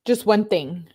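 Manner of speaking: venting anger at the unsolved case; exasperated outburst. Real, not acted. Creator demanding answers about the killing, loud and exasperated.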